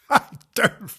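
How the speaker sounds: put-on high, loud childish refusal; defiant little girl. A narrator's reading. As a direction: dig in like a spoilt child. Fanny refuses again.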